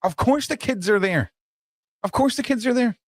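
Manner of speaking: high-pitched mock conspiracy nut; tinfoil-hat conspiracist. Playing Ron the tinfoil hat among the panel, conspiracist voice. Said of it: "Ron's going full tinfoil hat".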